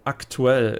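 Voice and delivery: "aktuell" as the German word, with a hard T. Shown as a demonstration. Streamer comparing with German, "aktuell" with a hard T. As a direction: say "aktuell" in German, T kept crisp before the u. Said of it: "in German it is a hard T".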